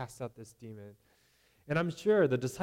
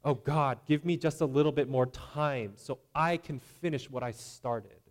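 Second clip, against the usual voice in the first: louder, breezy casual prayer; self-reliant prayer; 4 dB louder than usual. Retold or imitated. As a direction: ask God like it's a small favor. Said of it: "Do they sound like this?".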